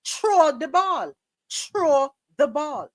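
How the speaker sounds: slow deliberate Throw the ball; slow demo of throw. Shown as a demonstration. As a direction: Throw said slowly as tro. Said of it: "Throw means throw".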